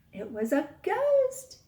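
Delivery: slow, loud spooky reveal; dramatic reveal. A narrator's reading. Teacher reveals the ghost to her class, slow and loud.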